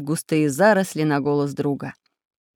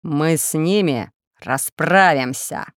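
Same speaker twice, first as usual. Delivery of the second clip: menacing voice; slower than usual. Acted. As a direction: promise revenge darkly. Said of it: "грозным голосом сказал".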